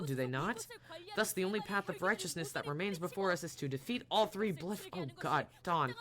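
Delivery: grand knight. Acted. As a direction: make the vow like a noble crusader. Don Quixote's knightly vow.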